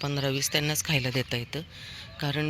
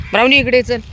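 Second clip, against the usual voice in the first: high, loud call of the dog's name; 7 semitones higher, 11 dB louder than usual. Real, not acted. Feeder calls Brownie to come eat, loud high call. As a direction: call Brownie over across the hill. Calling a dog over.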